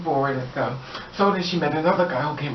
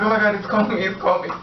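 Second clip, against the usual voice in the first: higher, urgent retold fretting; lightly hammed-up alarm; mock alarm; 5 semitones higher, faster than usual. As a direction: imitate someone alarmed by a ringing phone. Acts out her panicked phone reaction.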